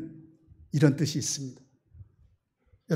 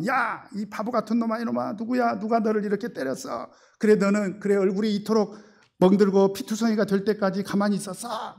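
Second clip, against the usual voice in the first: preacher lightly voicing a mother's angry scolding; mock angry mother; 3 semitones higher than usual. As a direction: play the fretful mother berating her bruised son. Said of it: "엄마가 화가 나가지고 막 손까지 부들부들 떨면서".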